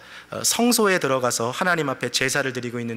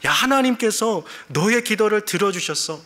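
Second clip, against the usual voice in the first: excited, higher-pitched good-news delivery; joyful angel voice; 5 semitones higher than usual. Acted. Angel telling Zechariah his prayer was heard, overjoyed. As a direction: break happy news like a thrilled messenger. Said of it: "즐겁고 기쁜 목소리로 전했겠죠".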